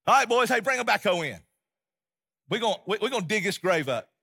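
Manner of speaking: loud, high call to the crew; bold order. Retold or imitated. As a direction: shout it out like a foreman. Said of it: "I walk up and I say".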